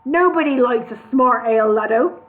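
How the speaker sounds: bully them into drinking; boss rant. Acted. Brewery boss hectoring his sober workers, loud.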